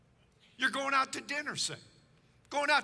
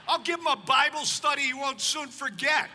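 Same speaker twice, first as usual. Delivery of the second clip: louder, hammed-up comic threat; mock threat; 5 dB louder than usual. Preacher telling Phyllis about the locksmith, mock threatening. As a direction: threaten with mock righteous anger.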